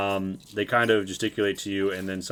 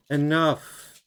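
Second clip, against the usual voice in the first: sonorous voice; slower than usual. Acted. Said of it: "a sonorous voice say".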